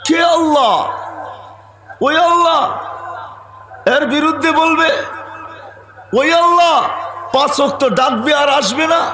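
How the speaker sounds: high-pitched, ringing proclamation; impassioned preaching. Real, not acted. Preacher proclaiming to the crowd who Allah is, impassioned preaching. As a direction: call out each phrase high, with long pauses between. Preacher declaiming at full force.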